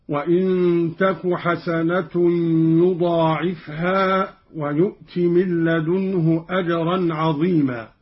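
تكُ with the ta clearly sounded as tu. Shown as a demonstration. Teacher demonstrates Qalun's raf' for students, careful recitation. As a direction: recite وإن تكُ حسنة, ending تك on a short u. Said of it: "قرأ قالون برفع التاء هكذا".

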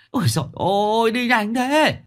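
high, loud panicked wail; limping man left behind, wailing in fear to his companions; frightened wailing. A narrator's reading. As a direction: cry out to the heavens in terror. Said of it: "sợ mà gào lên".

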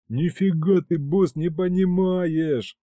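high, drawn-out wailing protest; howling plea. Acted. Battle demon wailing to the boss. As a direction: howl it like a wronged kid. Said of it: "завыл боевой бес".

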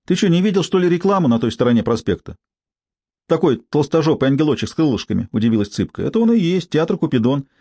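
a hint of a brassy street woman; coarse street woman. Tsypka surprised, explaining.

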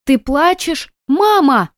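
put-on high, loud child asking and calling; a small girl frightened by her mother's tears; worried little girl. A narrator's reading. Daughter hears mother crying on the phone, high worried child's voice.

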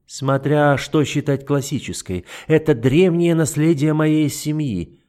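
lightly voiced icy duke, mocking; an understated sneer; a hint of the cold duke. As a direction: toy with her calmly. The duke answers.

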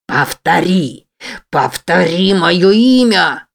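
slow, heavy beast's command; a growled demand dragged out; snarled order. Acted. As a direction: bark it slowly like a monster. Monster demands she repeat.

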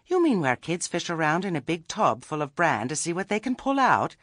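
high, disbelieving question climbing to the end; taken aback, voice going up and up; incredulous. A narrator's reading. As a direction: check in disbelief, pitch rising steeply. Nanny is taken aback by suggestion.

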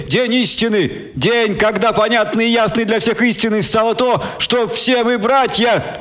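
high, rousing orator voice; preacher's speech. Acted. Martin Kenning addressing the crowd through stadium speakers, rousing. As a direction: preach to the masses, lifting each phrase.

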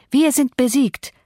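drawn-out sarcastic repeat; mock sinking lament. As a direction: let the sarcasm die away, falling. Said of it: "rief Catherine".

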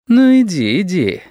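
inviting. A narrator's reading. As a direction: beckon him to try, daring. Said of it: "сказал весёлый приглашающе".

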